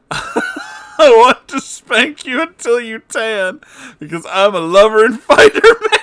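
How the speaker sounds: chorus dissolving into giggles; laughing. Real, not acted. Reading the chorus to viewers while cracking up.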